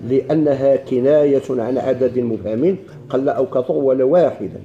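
slow, drawn-out classical Arabic reading; formal text recitation. Acted. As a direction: read the passage slowly, stretching the long vowels. Reads the book text aloud.

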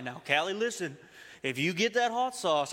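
imitating dad's thick Texas accent. Dad warns son's wife about hot sauce, thick Texas accent. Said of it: "gotta hear it in the Texas accent".

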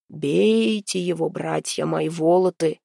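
slow booming stone giant; a slow rumbling stone giant's command. Acted. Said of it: "прогремел над площадью его каменный голос".

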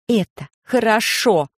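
slow, sure statement; confident. Acted. Rechka correcting the children, confident and slow. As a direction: say it with firm certainty, slowly. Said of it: "уверенно сказала девушка".

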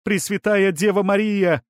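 high, fervent cry; exclaiming. A narrator's reading. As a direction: cry out to the Virgin in awe. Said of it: "воскликнула она".

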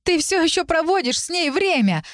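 staged public scene of jealous fury; jealous shout. Acted. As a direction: shriek the name, then the charge. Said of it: "закричал Арк".

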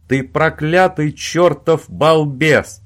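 loud, slow, altered angry voice; furious yell. A narrator's reading. Owen cursing Robin on the phone, loud fury. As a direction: hurl the insult at him. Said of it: "заорал Оуэн".

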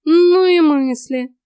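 high, loud, stretched exclamation; disgusted cat. A narrator's reading. Cat disapproves of the heroine's thoughts, indignant. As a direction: drawl it in loud feline disapproval. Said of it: "фыркнул кот".

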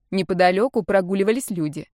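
ordinary delivery

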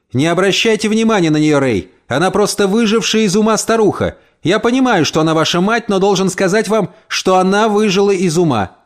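a hint of a firm young husband; lightly voiced, firm and reasonable; husband on phone. Husband speaks to landlord on phone. (муж твёрдо говорит с хозяином по телефону, чуть выше обычного)

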